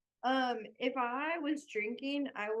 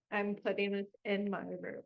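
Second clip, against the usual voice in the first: "I'm putting this in my room" said again, softer, to herself; softer repeat; 6 dB quieter than usual. Shown as a demonstration. Repeating to herself where the gift goes, softly. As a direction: murmur it a second time to herself.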